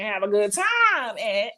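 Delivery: lightly put-on voice, stretching TIME; a hint of impersonation, drawn out on the key word; Bella Noche. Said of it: "in my Bella Noche vo-, voice".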